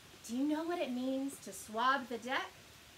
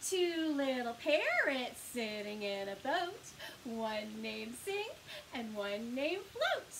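nursery rhyme; 3 semitones lower, slower than usual. Acted. Recites finger rhyme.

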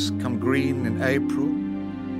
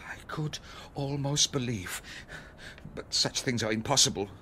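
near-whispered, softer musing; hushed suspicion; 5 semitones lower, 8 dB quieter than usual. Acted. Host half recognising his guest, whispered suspicion. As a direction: breathe it out almost to yourself. Host suspects, muttering to himself.

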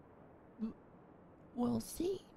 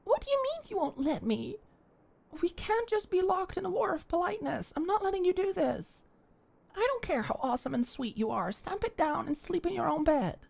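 insistent protest; 4 semitones higher, 3 dB louder than usual. Acted. Politeness war.

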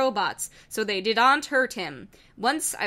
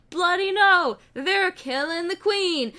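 much higher and louder, slow dismay; a panicked British robot crying out; alarmed Wheatley outcry; 8 semitones higher, 4 dB louder, slower than usual. Acted. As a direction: wail it like the queen is doomed. Wheatley sees city attacked.

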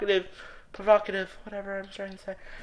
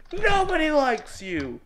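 slow, drawn-out frustrated whine; exasperated rejection; 2 semitones higher, 4 dB quieter than usual. Real, not acted. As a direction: slowly push them away in exasperation. Rant at program, first take.

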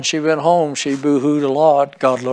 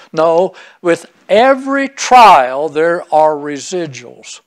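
louder slow preaching; 4 dB louder, slower than usual. Acted. Preaching peak.

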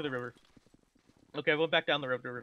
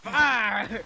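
loud battlefield call; shouting orders; 2 semitones higher, 4 dB louder, much slower than usual. Acted. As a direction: yell it to the troops.

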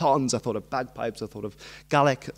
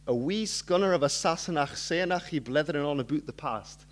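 Scots accent; 2 semitones higher than usual. Shown as a demonstration. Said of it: "please correct my terrible pronunciation".

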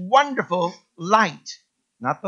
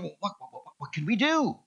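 higher, flustered chatter of eager animals; excited farm animals; 7 semitones higher than usual. Acted. Pastor voicing the farm animals for the congregation, flustered and higher. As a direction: play the animals all abuzz planning a feast. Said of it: "All the farm animals began to get together and said".

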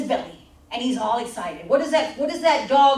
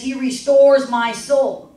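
slow, solemn, louder scripture read; 3 dB louder, slower than usual. Acted. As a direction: read it out slowly and reverently.

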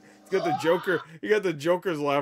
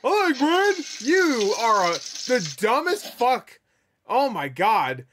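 mocking the pet; 6 semitones higher, 6 dB louder, slower than usual. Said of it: "He's like".

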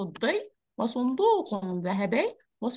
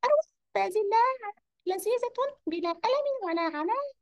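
smiling; 9 semitones higher than usual. Acted. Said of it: "وقال مبتسما".

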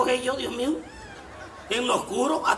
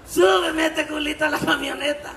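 louder, higher shouted repeat; 6 semitones higher, 4 dB louder than usual. Shown as a demonstration. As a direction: call it out across to Lalo. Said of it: "repeated louder".

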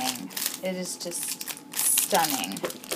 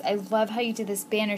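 ordinary talk, nothing marked

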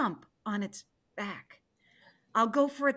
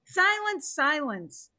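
sharp hush; 5 semitones higher, 3 dB louder, slower than usual. Acted. Tiger hushes man.

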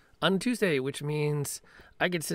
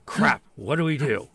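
panicked players; 2 semitones higher, 10 dB louder than usual. Retold or imitated. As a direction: burst out in mock panic. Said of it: "the P Cs all go".

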